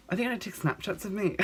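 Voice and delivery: very high little voice; mock panicked squeak. Acts out panicked thought while fainted.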